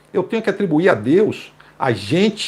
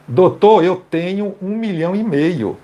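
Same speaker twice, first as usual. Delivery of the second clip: mocking boast; 2 semitones higher than usual. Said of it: "quoting the pastor".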